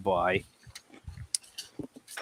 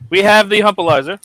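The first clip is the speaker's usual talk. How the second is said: loud, higher hype intro; hype announcer; 5 semitones higher, 5 dB louder than usual. Acted. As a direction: hype up the guest name. Hyped introduction of cohost.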